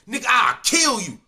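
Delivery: mock threatening shout of "kill"; retold shouted threat. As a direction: bark the threat with weight on "kill". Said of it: "That was his only words he said".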